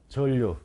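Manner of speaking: 전류 said as "절류"; model pronunciation. Shown as a demonstration. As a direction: say 전류 with a held double L. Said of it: "이렇게 읽으란 말이야".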